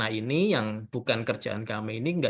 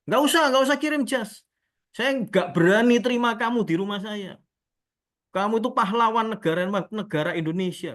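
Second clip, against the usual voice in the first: high, loud retold protest; changed, admiring tone; 8 semitones higher, 5 dB louder than usual. Haji refusing a delivery from a national hero, imitated awed insistence. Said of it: "Dia kok ngomongnya seperti ini".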